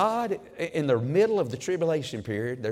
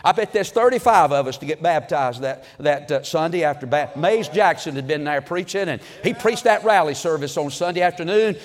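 starts level, then climbs much higher and louder to a joyful shout; rising testimony shout; 4 semitones higher, 7 dB louder than usual. Retold or imitated. Preacher imitating an old church member's testimony, building to an excited shout. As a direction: let the memory swell until you're shouting it out.

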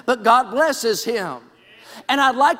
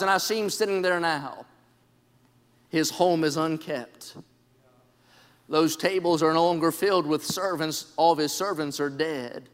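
hushed somber telling; 6 semitones lower, 6 dB quieter than usual. Acted. Preacher painting Job's empty home for the church, hushed. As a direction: paint the desolate scene in a hush.

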